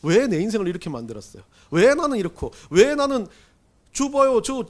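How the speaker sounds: arguing with God. Retold or imitated. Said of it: "하나님 앞에 좀 막 따져본 적".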